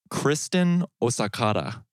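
lightly put-on pseudo-Japanese accent. Announcing a donor's name in a faint pseudo-Japanese accent. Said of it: "weird pseudo-Japanese accent".

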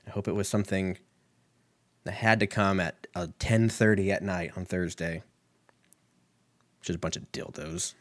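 usual speaking voice

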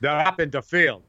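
put-on a mother with a light Polish accent calling out to the neighbourhood kids; mother's Polish accent. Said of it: "in a bit of a Polish accent".

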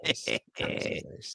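trailing off into a whisper; fading whisper. Real, not acted. Fading repeated approval.

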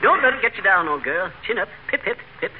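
hammed-up British pep talk; mock British chap. Husband teasing his wife, mock British accent. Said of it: "stop talking like that".

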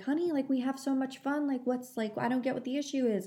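coaxing mom. Retold or imitated. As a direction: retell a mom coaxing her child, voice lifted. Mom coaxing her daughter, retold.

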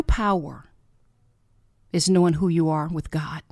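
whispered punchline; hushed, intimate whisper. Real, not acted. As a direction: drop to a whisper to land the truth. Key line of her message.

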